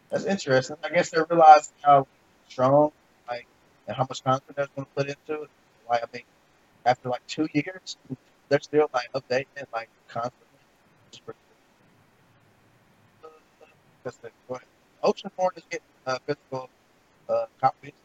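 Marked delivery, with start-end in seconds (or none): 0.8-10.5 choppy, cutting-out call audio; breaking up. Real, not acted. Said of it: "you're really low and you're breaking up". 11.1-17.9 faint, choppy call audio; bad connection, words cutting out; breaking up. Real, not acted. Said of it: "you're really low and you're breaking up".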